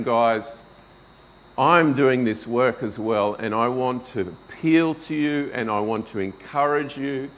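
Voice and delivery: mild, gentle encouragement to fellow elders; gentle humble appeal. Retold or imitated. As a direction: speak as a humble fellow worker beside them. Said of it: "in gentleness and humility".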